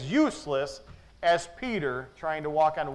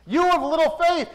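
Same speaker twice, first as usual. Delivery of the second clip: "You of little faith" said louder and higher, pressing on "of"; preacher echoing the words with force; raised rebuke; 9 semitones higher, 6 dB louder than usual. Shown as a demonstration.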